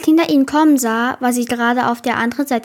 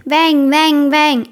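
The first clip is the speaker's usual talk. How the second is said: repeated, slightly raised chanting call; 3 semitones higher, 4 dB louder, much slower than usual. A narrator's reading. Robby calls out while Katinka swims, calling out. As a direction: cheer it out in even repeats. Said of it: "Und Robby rief".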